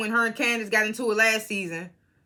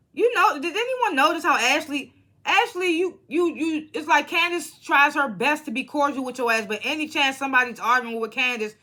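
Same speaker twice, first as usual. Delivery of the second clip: much higher, pointed and incredulous; calling someone out; 5 semitones higher than usual. Acted. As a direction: needle Ashley like she's right there. Calling out Ashley directly.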